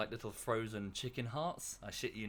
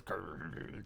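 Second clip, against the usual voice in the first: imitating a dog growl; 7 semitones lower, 8 dB quieter than usual. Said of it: "She sort of shakes her head and goes".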